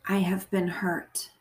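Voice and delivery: measured meditation voice, phrase by phrase; guided prayer. Acted. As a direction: pray gently and deliberately, leaving long pauses to repeat.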